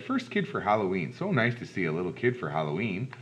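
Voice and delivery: lightly voiced man at the door; a hint of a friendly big man; big man greeting. Big man greeting first trick-or-treater, lightly voiced welcome. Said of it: "A big man opened the door".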